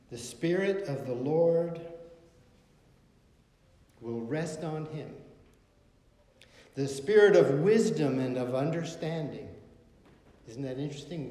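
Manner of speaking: preacher reading Isaiah, building then fading; scripture reading. Acted. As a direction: proclaim the verse like a preacher. Reading Isaiah at full force.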